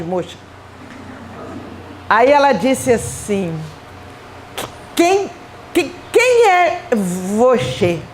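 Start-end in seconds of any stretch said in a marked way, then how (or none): 5.0-8.0 put-on high, slow, halting little-child voice; toddler. Two-year-old asks the visitor who she is, toddler voice. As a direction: imitate a two-year-old struggling out a question. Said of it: "Uma criancinha de em torno de dois anos".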